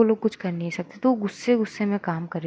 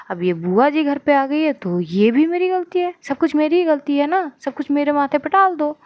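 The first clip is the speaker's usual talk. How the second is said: rising, higher-pitched aggrieved mother; aggrieved outburst; 4 semitones higher, 3 dB louder than usual. Acted. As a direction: pile up the blame, fed up. Mother sarcastically takes all blame. (झुंझलाकर शिकायत करते हुए)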